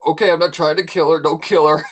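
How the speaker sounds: quick, loud, laughing through the words; fast laughing plea. Retold or imitated. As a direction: blurt it out fast while laughing. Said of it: "was like".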